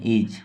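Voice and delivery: is said alone, drawn out and clear; careful isolated is; pronouncing is. Shown as a demonstration. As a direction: sound out the word is on its own. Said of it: "इसको is बोलते हैं".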